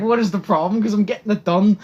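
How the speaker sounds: high, loud what-is-the-problem challenge; loud defiance. Retold or imitated. Student challenging teacher over talking in class, loud and high.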